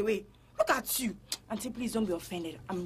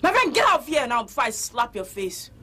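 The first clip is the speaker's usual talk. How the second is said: scolding; 3 semitones lower, 3 dB louder than usual. Acted. Owner scolds the salesgirl.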